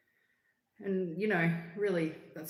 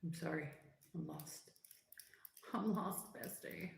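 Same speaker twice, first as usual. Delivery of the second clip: soft confused; 11 dB quieter than usual. Real, not acted. Confused softly to viewer.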